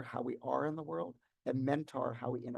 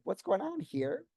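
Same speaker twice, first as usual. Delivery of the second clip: mildly worried, higher and drawn-out question; a little worried; 6 semitones higher, slower than usual. Acted. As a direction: wonder slowly, with a touch of worry. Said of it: "maybe a, a worried".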